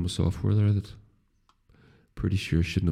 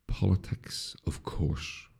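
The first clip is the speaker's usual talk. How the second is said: breathy hushed whisper of the big topic; hushed tease; 9 dB quieter, much slower than usual. Acted. Teasing listeners about politics, whispered hush.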